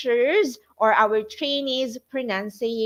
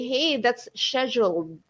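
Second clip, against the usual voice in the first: British pronunciation; 3 dB quieter than usual. Retold or imitated. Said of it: "That's British or Canadian way".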